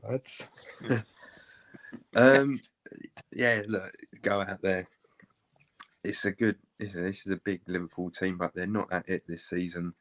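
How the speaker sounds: a hint of Moyes in Scottish briefing the lads before kickoff; Moyes impression. Asked on air for his best Scottish accent, he gives a mild Moyes team talk. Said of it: "In the style of Moisey".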